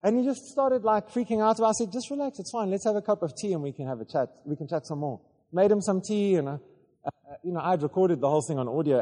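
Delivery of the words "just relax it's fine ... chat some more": gentle reassurance. Retold or imitated. Pastor gently soothing a confused man after deliverance. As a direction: put him at ease lightly.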